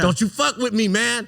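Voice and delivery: a hint of Matt Damon's intense threat, laughing through it; half-laughing mock tough-guy warning to a friend; Matt Damon impression. Retelling a drunk bar fight, a lightly voiced Matt Damon threat. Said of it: "like Matt Damon in Good Will Hunting".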